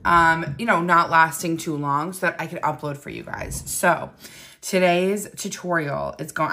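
just woke up, groggy morning voice; sleepy just-out-of-bed voice. Real, not acted. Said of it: "I have my morning voice 'cause it's nine oh six".

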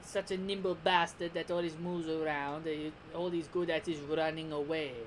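lightly voiced disdainful villain; mildly sneering impression; Frieza. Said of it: "Oh, sorry, I should do that better".

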